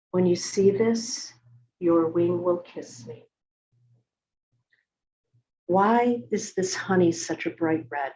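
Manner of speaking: measured poem reading with deliberate pauses; poetry reading. Acted. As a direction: read it as a poem, phrase by phrase. Reads own poem aloud.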